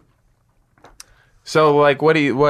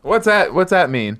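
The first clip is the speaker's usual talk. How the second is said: high, puzzled what's that; startled asking; surprised question; 7 semitones higher than usual. Shown as a demonstration. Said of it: "Now go".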